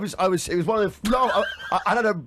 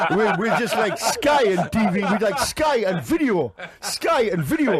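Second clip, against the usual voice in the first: laughing; 3 semitones higher, slower than usual. Real, not acted. Laughing over his own joke.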